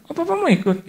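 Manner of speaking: very high little voice; child's surprised question. Retold or imitated. Child asking Papa if he is coming, high surprised voice. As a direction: pipe up in surprise, pitched far up. Child's reply to father, acted.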